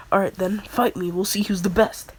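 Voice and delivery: loud, cocky dare to fight; brash challenger. Retold or imitated. Inosuke-type hero challenging the girl, brash and loud. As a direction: throw down the challenge like a hothead. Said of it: "Inosuke personality".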